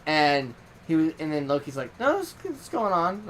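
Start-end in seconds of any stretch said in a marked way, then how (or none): 2.0-3.2 higher, slower mock god voice; a lightly voiced god, drawn out and lofty; imitating Loki. Narrator quoting Loki, answering him in a higher slow voice. Loki's reply in retold chat.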